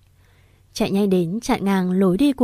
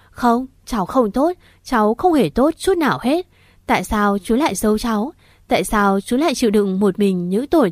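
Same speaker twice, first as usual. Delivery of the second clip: sobbing protest; 2 semitones higher than usual. Acted. Niece confronting her uncle through sobs, anguished. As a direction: cry out your hurt, voice climbing. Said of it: "nước nở".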